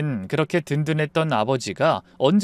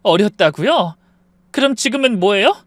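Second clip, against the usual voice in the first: angry challenge; 6 semitones higher, 6 dB louder than usual. Acted. 부부싸움, 아내가 따짐.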